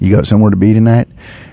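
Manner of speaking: put-on Southern American accent with a twang. An actor redoing a line he delivered in the movie Texas Heat, with a Southern twang. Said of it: "Did you catch the Southern twang?".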